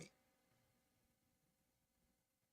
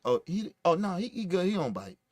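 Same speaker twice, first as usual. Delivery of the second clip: soft, quieter friendly reassurance; gentle reassurance; 4 semitones lower, 7 dB quieter than usual. Shown as a demonstration. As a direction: say it kindly, winding down softly. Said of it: "It wasn't like".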